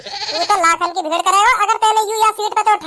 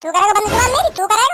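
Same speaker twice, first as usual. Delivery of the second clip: higher-pitched indignant retort; defiant challenge; 4 semitones higher than usual. Acted. Man challenges a stranger in seat quarrel, defiant. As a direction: throw the threat back at him, pitched up.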